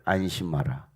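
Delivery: low-pitched, composed reassurance; steady them with a calm word. Acted. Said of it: "그리고 말씀하시기를". (낮고 침착하게 안심시키듯)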